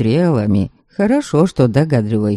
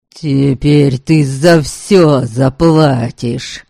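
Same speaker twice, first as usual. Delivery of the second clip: slow, menacing furious threat; berserk rage; much slower than usual. Acted. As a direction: spit out each word in fury. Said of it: "В ярости кричал он".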